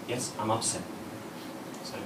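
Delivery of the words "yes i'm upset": upset wife. Retold or imitated. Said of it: "She looks and goes".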